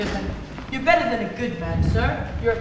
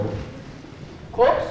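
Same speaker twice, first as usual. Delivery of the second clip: whispering; 14 semitones lower, 4 dB quieter than usual. Acted. Servant speaking in sudden whisper.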